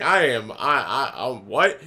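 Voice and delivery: imitating his own baffled stammer; confused stammer. Speaker baffled by the man wanting a fight, confused stammer. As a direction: trip over the first word, then question. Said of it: "I'm super confused right now".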